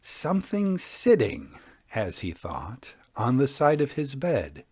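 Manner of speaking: hushed, eerie storytelling; ghost story narration. A narrator's reading. Podcast host reading a Victorian ghost tale to listeners, eerie narration. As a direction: tell it like a fireside ghost tale, drawing them in.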